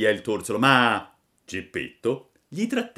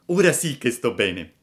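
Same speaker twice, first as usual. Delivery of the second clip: gleeful; 4 semitones higher, 8 dB louder than usual. Acted. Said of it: "disse gongolando".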